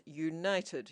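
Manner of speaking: United set apart and leaned on; United said alone, weighted; stress on United. Shown as a demonstration. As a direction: hit the word United hard. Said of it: "I would like to stress that".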